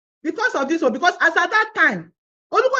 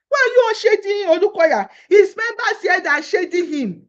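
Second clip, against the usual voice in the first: tearful cry; 3 semitones higher, 4 dB louder than usual. Real, not acted. Crying out in distress.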